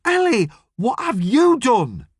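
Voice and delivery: high, urgent accusing question; James, appalled. Acted. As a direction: demand it of her, aghast. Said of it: "admiration or could easily be fury".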